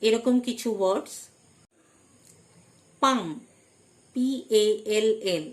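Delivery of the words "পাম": "পাম" with the L left unsounded; silent L. Shown as a demonstration. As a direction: say "পাম" with no L sound before the M. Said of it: "এল silent". ("পাম", এল উচ্চারণ না করে)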